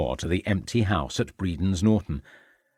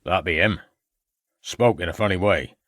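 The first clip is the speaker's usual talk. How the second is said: put-on old farmer; 2 semitones lower than usual. A narrator's reading. Old farmer answers the inspector.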